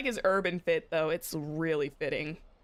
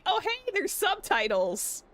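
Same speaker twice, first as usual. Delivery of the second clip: high, slow mock Aventurine quip; lightly voiced Aventurine noticing subtitles; imitating Aventurine; 12 semitones higher than usual. Streamer retelling Aventurine's fourth-wall joke, high slow mock voice. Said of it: "Aventurine broke the fourth wall by saying".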